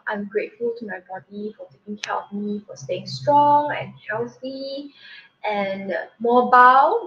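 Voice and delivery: a touch of tender gratitude, slowed down; kind self-talk. Retold or imitated. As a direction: speak to yourself like a good friend. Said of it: "change it to something else".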